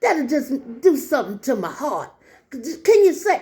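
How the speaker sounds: lightly voiced pleading old lady; imitated elderly woman. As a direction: gently mimic an old woman's plea. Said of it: "this is how she talked".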